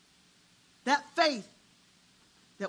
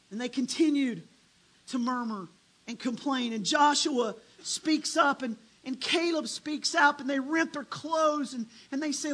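ordinary talk

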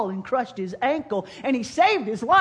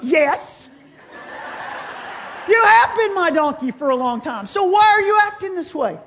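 loud, exasperated yell at the donkey; furious rider scolding his donkey, voice raised high; angry shout; 6 semitones higher, 7 dB louder than usual. Acted. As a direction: bellow it at a stubborn animal. Balaam yelling at his donkey.

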